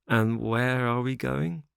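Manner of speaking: put-on slow, weary old man's question; slow, tired elder voice; weak old father. A narrator's reading. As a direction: ask slowly, like a feeble old father.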